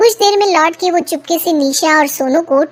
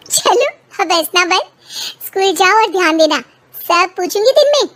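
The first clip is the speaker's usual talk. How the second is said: higher, quick mother hurrying son off; brisk mother; 5 semitones higher than usual. Acted. Mother to son before school, brisk higher voice. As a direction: shoo the boy to school briskly.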